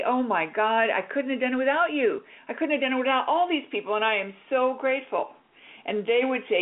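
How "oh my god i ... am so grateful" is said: mildly raised, gushing thanks; a touch of overwhelmed joy; joyful gratitude. Shown as a demonstration. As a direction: coach modelling a grateful reply. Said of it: "your joy leads you to say".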